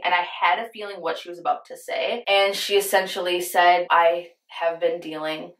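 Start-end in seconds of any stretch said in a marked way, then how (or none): 3.9-5.5 slow, voice catching with emotion; choked up. Real, not acted. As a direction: hold back tears as you say it. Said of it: "I get choked up talking about this".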